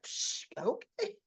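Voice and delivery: slow, high put-on scoff; dismissive scoff. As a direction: drag out a snooty high brush-off. Christina dismissing the mother again.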